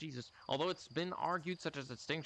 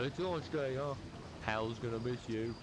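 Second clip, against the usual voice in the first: put-on Australian accent. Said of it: "I don't know why I made him Australian".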